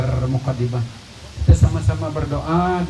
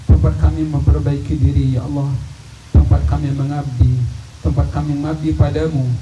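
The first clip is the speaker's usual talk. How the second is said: earnest imploring prayer, each plea ending in a dropped ya Allah; leading a prayer; 3 semitones lower than usual. Acted. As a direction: plead humbly for the community, voice falling at every ya Allah. Leads a long communal prayer.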